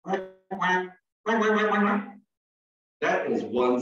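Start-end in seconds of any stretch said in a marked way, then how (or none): 0.0-2.2 a run of imitated duck quacks; repeated duck calls for children to copy; duck quacking. Shown as a demonstration. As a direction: quack like a real duck, building to a rapid string. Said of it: "So you give it a try".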